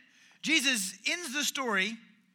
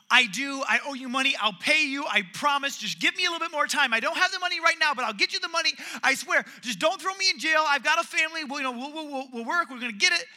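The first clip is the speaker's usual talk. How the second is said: mock pleading; 5 semitones higher, 6 dB louder than usual. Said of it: "And the guy goes".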